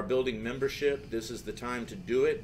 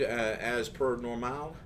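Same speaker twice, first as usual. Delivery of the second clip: Texan accent; much slower than usual. Shown as a demonstration. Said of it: "That's my Texan accent".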